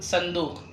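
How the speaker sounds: صندوق beginning on plain s, "sandooq"; Urdu pronunciation. Shown as a demonstration. Teacher explains spelling versus sound, صندوق with light s. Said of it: "ينطق بسين".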